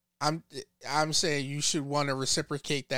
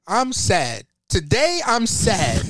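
mock sad; 4 semitones higher, 5 dB louder, slower than usual. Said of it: "I was just making a funny".

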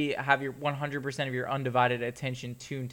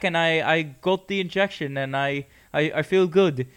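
put-on a lightly done, shaky British old man accent; mild impression of a ninety-one-year-old British man; crappy British accent; 3 semitones higher, 4 dB louder than usual. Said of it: "my, uh, crappy British guy impression".

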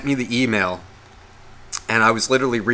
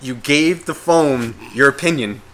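calming self. Retold or imitated. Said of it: "I have to calm myself down".

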